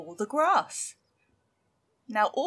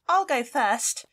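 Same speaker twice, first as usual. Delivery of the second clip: littlest goat; 6 semitones higher, 5 dB louder, slower than usual. Acted. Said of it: "said the littlest Billy Goat Gruff".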